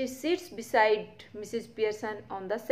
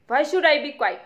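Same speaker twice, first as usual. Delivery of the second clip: loud, raised indignant protest; 5 semitones higher, 8 dB louder, much slower than usual. Acted. Son shouting back at his mother indignantly. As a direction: protest loudly, offended. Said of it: "indignantly and loudly".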